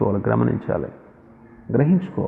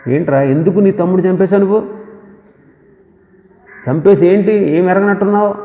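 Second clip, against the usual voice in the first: mock scolding; 5 semitones higher, 5 dB louder than usual. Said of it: "అనాలి ప్రభు అసలు".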